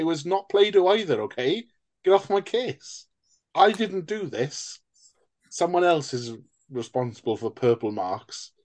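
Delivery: high, petulant denial to Mum; a sulky child protesting innocence; whiny defensive kid. Pretend. Acting childhood self defending to Mum.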